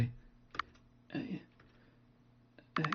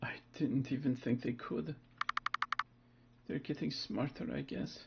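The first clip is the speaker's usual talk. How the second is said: shaken murmur; 7 dB quieter than usual. Acted. Shaken child calms self quietly.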